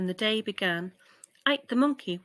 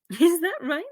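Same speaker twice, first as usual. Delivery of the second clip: giraffe voice; 8 semitones higher, 6 dB louder than usual. Acted. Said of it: "she asked".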